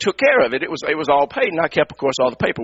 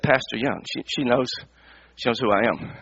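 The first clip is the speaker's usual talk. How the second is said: much lower and softer, dawning shock; stunned realisation; 7 semitones lower, 6 dB quieter than usual. Real, not acted. Pastor realises the clerk knows who he is, stunned and quiet. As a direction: realise you've been recognised. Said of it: "I had started processing".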